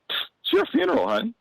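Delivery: high, mocking lady's voice; desk lady. Desk lady telling the comic she's on, teasing.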